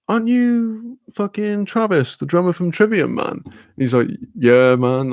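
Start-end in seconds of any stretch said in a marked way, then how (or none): 0.1-3.4 high-pitched, incredulous recognition; retold excited fan question; starstruck fan. Fan recognising a band's drummer. 4.3-5.1 easygoing American impression; lightly put-on American accent. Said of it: "'cause he's American".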